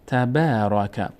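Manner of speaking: تبارک read slowly with the long a held; slow teacher reading of تبارک; slow recitation. Shown as a demonstration. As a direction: repeat تبارک slowly for the class.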